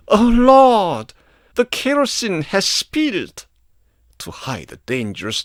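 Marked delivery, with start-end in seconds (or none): 0.1-3.5 mock alarm. A narrator's reading. Feigned alarm to hide smell.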